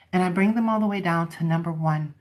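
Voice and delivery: normal talking voice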